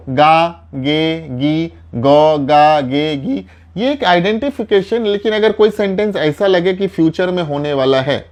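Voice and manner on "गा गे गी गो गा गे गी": each ending set apart and stressed; teacher to Hindi students, pointing out future endings, each ending set apart; spelled-out endings. Shown as a demonstration. Stress each ending separately. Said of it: "clearly देखिए".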